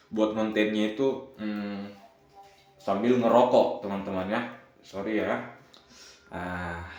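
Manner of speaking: talking around a cigarette; smoking while talking; cigarette in mouth. Real, not acted. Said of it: "sini admin bakar rokok dulu".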